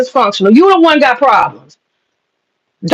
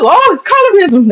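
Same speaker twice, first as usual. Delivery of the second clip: high, whiny mock complaint; mocking whine; 5 semitones higher than usual. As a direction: parody their self-pity, pitched up.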